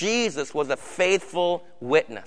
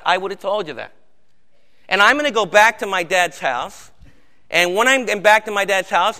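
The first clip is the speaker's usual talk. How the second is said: lightly voiced Jesus, casual; Jesus paraphrased. Preacher retelling Jesus's promise to his friends, casually. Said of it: "That's really the way he talked in Greek".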